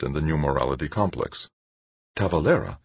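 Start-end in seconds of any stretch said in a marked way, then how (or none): 2.2-2.8 gasped. A narrator's reading. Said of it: "Angelique gasped".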